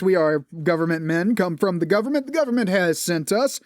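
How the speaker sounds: stiff generic government agent; military man voice. Shown as a demonstration. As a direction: announce it like an official soldier. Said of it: "I'll just fall into generic military man voice".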